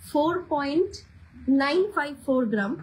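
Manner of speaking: "Four point" rising, a pause, then "nine five four gram"; slow, chunked repeat. Shown as a demonstration. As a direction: repeat the weight slowly so viewers can note it. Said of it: "সেই জন্য আমি আস্তে আস্তে বলছি". (ধীরে ধীরে, থেমে থেমে ওজন বলা)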